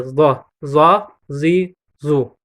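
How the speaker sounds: slow, drawn-out "ضا، زی، زو" with a full-mouthed emphatic sound; heavy emphatic pronunciation. Shown as a demonstration. Teacher shows learners the heavy z-like letter, emphatic pronunciation. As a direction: say "ضا، زی، زو" as heavy, dark Arabic emphatic consonants.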